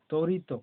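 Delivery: তরিত with a firm ত and no ব sound; stressed ত, silent ব. Shown as a demonstration. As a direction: lean on the ত in তরিত, leaving ব silent. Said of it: "তটা জোর দিয়ে বলা হয়".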